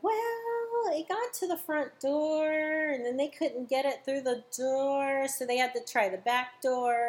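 starts high, then settles sheepishly; sheepish customer admitting a failure. Retold or imitated. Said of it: "I'm like".

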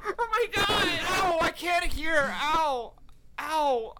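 high, loud cries of pain, ears ringing; pained yelling. Acted. Deafened dragon kid yells in pain at the cop. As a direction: yelp like the gunshot deafened you.

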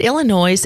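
"Illinois" ending in a clear Z sound. Shown as a demonstration. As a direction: say "Illinois" with the final S sounded, ill-ih-NOYZ. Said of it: "Is the S silent?".

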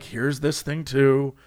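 slow, low, resigned; mock-defeated, dragging it out. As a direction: give in wearily, lightly acted. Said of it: "I have never been so defeated".

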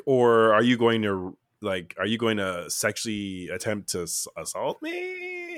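a lightly voiced worried date; half-hearted panicked question; imitating alarmed date. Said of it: "the date would be like".

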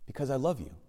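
soft, tender answer; gentle hushed reply; the Lord's voice. Retold or imitated. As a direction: reassure quietly, as God answering a prayer. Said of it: "And the Lord's voice said".

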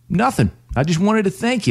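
mock northern accent on a client's thanks. Client tells her advisor why she called, in a bad northern accent. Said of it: "your bad imitation of a northern accent".

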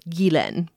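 Ghislaine as ghee-LEN, stress on LEN; Ghislaine, French style, second syllable stressed; ghee-LEN, clearly modeled; correct pronunciation. Shown as a demonstration. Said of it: "is how you pronounce it".

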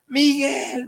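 high, loud call across the street; desperate shout to his brother in the taxi; shouting a name. Retold or imitated. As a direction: yell after the passing taxi. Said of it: "Benny empieza a gritar".

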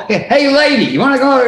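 high, blunt mock heckle; brash hailing. Shown as a demonstration. Rude contrast to polite English request.

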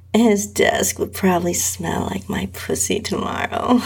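fast, wicked inner aside; a quick, wicked private thought. Acted. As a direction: relish the naughty idea, quickly. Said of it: "I thought wickedly".

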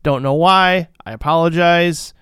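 muffled, loud, like underwater. Real, not acted. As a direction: talk through a murky underwater call line. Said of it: "making me sound like I'm underwater".

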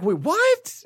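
high-pitched "wait, what" double take; retold disbelief. Recalling his confusion over the track title, baffled. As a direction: replay your baffled surprise.

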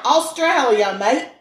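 mock Australian accent. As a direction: show them how an Aussie says it, half-joking. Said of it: "that's how they sound".

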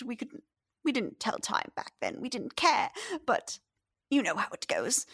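lightly voiced chatty old lady; old woman. The fisherman's wife explains to the stranger where he is, chatty.

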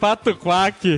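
glitchy, slowed robotic voice; words dragged out like a lagging robot. Real, not acted. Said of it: "Dudu fica com essa voz de robô".

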